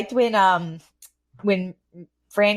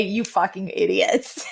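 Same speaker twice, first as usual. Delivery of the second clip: laughing; 3 dB quieter, slower than usual. Retold or imitated. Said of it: "I thought you were gonna say".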